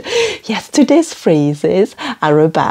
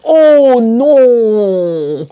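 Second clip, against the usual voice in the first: dismayed French no; 3 semitones higher, much slower than usual. Shown as a demonstration. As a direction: moan a heartfelt oh no. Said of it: "You just go".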